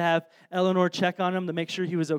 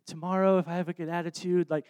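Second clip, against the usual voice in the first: soft, hesitant little request; bashful child; 5 dB quieter than usual. Retold or imitated. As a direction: imitate a shy daughter asking dad for a treat. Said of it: "she gets all bashful".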